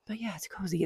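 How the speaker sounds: soft whispered aside; breathy whisper. Real, not acted. Whispered aside about scarf.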